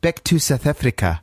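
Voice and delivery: lightly South African phrase; slight South African accent. Acted. Repeating the phonetic trick, slight South African accent. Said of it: "you're saying it with a slight".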